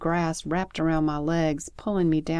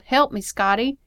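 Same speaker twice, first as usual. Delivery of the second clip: high, loud yell for help; urgent, raised-pitch call; 7 semitones higher, 7 dB louder than usual. A narrator's reading. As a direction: cry out to be rescued. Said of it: "she yelled".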